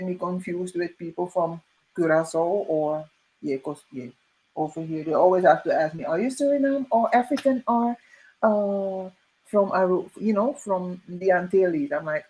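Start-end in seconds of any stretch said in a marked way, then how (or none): 6.1-11.9 imitating a curious local. Mimicking Dutch locals quizzing her, lightly mocking. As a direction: lightly play the nosy questioner.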